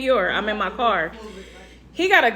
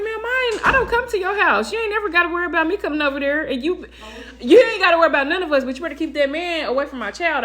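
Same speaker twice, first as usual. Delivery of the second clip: heated retort; 6 semitones higher, faster than usual. Retold or imitated. Heated argument with the wife.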